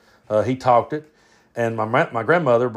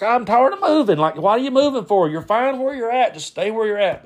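higher-pitched, fed-up complaint; exasperated uncle Brad; 10 semitones higher than usual. Retold or imitated. Uncle griping about grandmother moving house, exasperated. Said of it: "my uncle Brad, he's just like".

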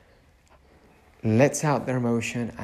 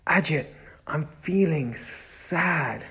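softer, kindly naming your own feelings; gentle self-talk; 4 dB quieter, slower than usual. Shown as a demonstration. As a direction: speak to yourself like a caring friend. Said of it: "we say it to ourselves".

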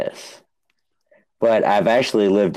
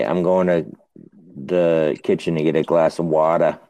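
New England accent; 2 semitones lower than usual. Shown as a demonstration. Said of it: "they don't pronounce the R".

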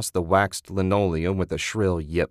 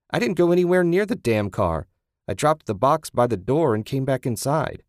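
shouting; 5 semitones higher than usual. Acted. Susan shouting back.

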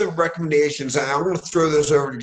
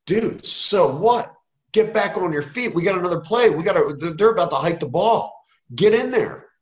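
rallying coach; 4 semitones higher than usual. Retold or imitated. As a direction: pump the kid up, urgent. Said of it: "I'm like".

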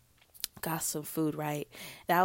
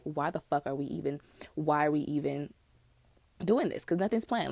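whiny tantrum, lightly acted; half-hearted tantrum over no plans; mock hissy fit; 2 semitones lower than usual. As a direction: throw a small retold tantrum. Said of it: "having a fucking hissy".

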